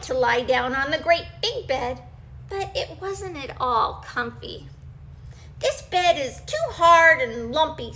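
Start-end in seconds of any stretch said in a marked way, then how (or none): 5.6-7.9 grumbling. Acted. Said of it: "she grumbled".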